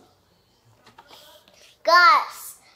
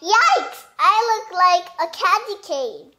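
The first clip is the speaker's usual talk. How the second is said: mock surprise; 3 semitones higher, 4 dB louder than usual. Reading surprised character.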